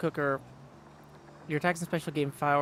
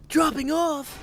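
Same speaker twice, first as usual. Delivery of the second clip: incredulous echo; 12 semitones higher, 10 dB louder, slower than usual. Real, not acted.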